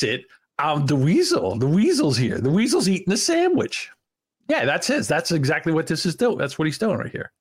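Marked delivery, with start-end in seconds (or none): 0.6-3.9 high, nasal-free bro character; the Weasel. Retold or imitated. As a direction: play the Weasel, hamming it. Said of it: "in the character right now of the Weasel".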